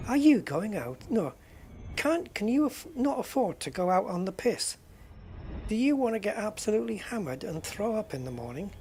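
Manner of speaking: hammed-up radio ad pitch for a booze shop; mock advert. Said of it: "Just wait to see the adverts from them".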